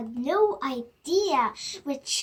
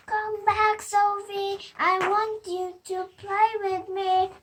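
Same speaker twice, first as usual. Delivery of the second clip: calling out; 5 semitones higher, 4 dB louder than usual. Acted. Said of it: "he cried out".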